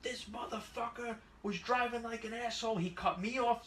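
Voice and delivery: playing the riled-up witness, mildly; angry old witness. Witness complaining about the driver, lightly voiced angry old man. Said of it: "the witness goes".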